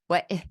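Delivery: "What" and "Eh" cut short, no N; consonants left off. Shown as a demonstration. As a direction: say "Eh" as a bare vowel without its N. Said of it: "They didn't say the N".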